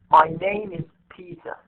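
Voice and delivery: NAME and PETER stressed, "My" and "is" light. Shown as a demonstration. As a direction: glide over "is", land on NAME and Peter. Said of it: "just you say it like this".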